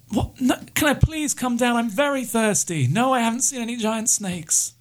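high, relieved voice of a parched survivor; stranded pilot. Acted. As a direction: play the stranded pilot high, grateful and desperate.

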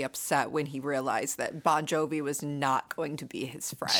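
whispered punchline. Real, not acted. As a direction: drop to a whisper.

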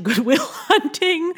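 playful stab at a Boston accent; attempted Boston accent. Shown as a demonstration. Podcaster citing a film for the accent she likes, attempted Boston accent. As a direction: put on a rough Boston accent. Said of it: "an accent like that".

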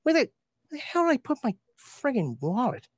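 high put-on voice ending in a loud call; a hammed-up dad voice searching for his wallet; put-on cartoon dad voice. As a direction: fuss in a silly voice, then yell the name. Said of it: "if I ever walked around here going".

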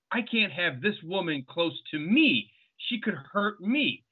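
drawn-out mock alarm; mock fearful. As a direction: plead it slowly, hammed up a little. Mocks a man fearing a woman.

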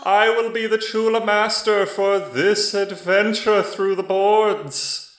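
high, loud booming voice from the sky; magically amplified voice. Acted. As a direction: boom it out like a god overhead. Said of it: "a booming voice comes down from the sky".

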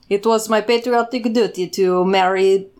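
lightly hammed-up Russian accent; the dad confessing in a put-on Russian accent; proud spy father in a mock Russian accent. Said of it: "someone from Russia".

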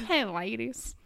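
drawn Southern greeting through the nose; nasally Southern accent. Acted. Co-host copying the customer's greeting, nasally Southern accent. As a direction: put on a nasal Southern man. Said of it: "like, a nasally Southern accent".

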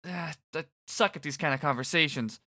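put-on high, lively teen guy; upbeat boy rambling awkwardly; Fret voice.

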